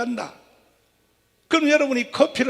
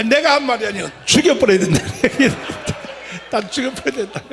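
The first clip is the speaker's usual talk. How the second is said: laughing through a mock threat; chuckling while saying it; 2 semitones higher, 3 dB louder than usual. Real, not acted.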